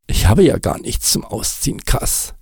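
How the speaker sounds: gehaucht, leicht erstaunt. Acted. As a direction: merk es plötzlich verwundert. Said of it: "stellte er erstaunt fest". (Nick bemerkt erstaunt seine Nacktheit)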